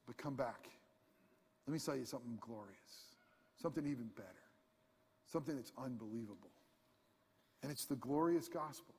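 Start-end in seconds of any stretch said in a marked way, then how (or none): 0.1-6.5 hushed preaching. Acted. Hushed turn to the gospel.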